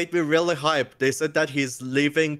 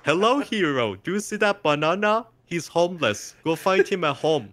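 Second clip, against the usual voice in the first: quest giver voice; 3 semitones higher than usual. Retold or imitated. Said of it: "And then, not just that".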